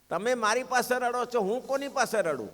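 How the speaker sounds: the Lord's own plea, voice lifted. Acted. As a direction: repeat it rising with feeling. Lament repeated more strongly.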